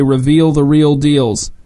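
'Reveal the real deals' slow and deliberate; deliberate incantation. Shown as a demonstration. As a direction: speak it slowly like a password.

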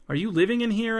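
high, startled question; surprised. A narrator's reading. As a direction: ask it in disbelief. Shocked question.

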